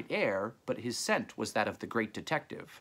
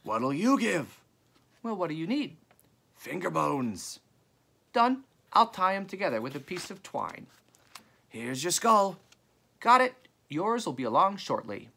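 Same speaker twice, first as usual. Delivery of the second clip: high, carrying trader's voice; calling across; 8 semitones higher, 4 dB louder than usual. A narrator's reading. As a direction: haggle from a distance, pitched well up. Two traders bargain across the graveyard.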